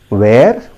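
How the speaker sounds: "where" rhyming with air; wrong pronunciation. Shown as a demonstration. Teacher quizzing learners with a common mistake, "where" rhyming with air. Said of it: "that is a wrong pronunciation".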